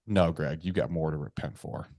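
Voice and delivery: a hint of a stern inner boss. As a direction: say it low and quiet as the stern inner voice. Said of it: "my boss voice comes in".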